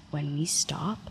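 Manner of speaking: urgent whisper, "run" breathed. Retold or imitated. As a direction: hiss the warning low and secret. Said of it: "Ben whispers in my ear".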